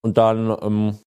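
talking with a mouthful; chewing between words; eating cereal. Real, not acted. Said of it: "Sorry, ich esse grad nebenher". (mit vollem Mund sprechen)

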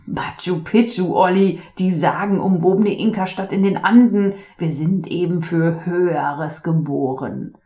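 grand, showy dad voice; pompous proud father. Acted. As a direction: proclaim it like a proud showman.

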